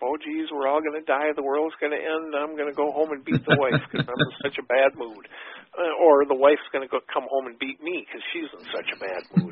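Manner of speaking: mock panic, lightly hammed-up; sarcastic. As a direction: rattle off an exaggerated doom-and-gloom overreaction, tongue in cheek. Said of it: "I'm being as sarcastic as I humanly possibly can".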